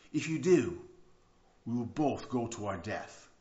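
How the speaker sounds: commanding, with a hint of French; lightly French-accented firm orders; slight French accent. Tightrope walker instructs the manager on his back, slight French accent. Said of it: "I'm hearing a little French accent in there".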